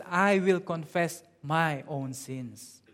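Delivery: slow stress on "my own"; drawn-out emphasis on "my own sins"; contrastive emphasis. Shown as a demonstration. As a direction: set "my own" apart, slowly. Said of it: "It doesn't say".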